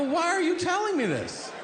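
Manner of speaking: very high, appalled plea; horrified squeal. Retold or imitated. Son begging his father to stop, horrified high squeal. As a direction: shriek it like you can't unhear it.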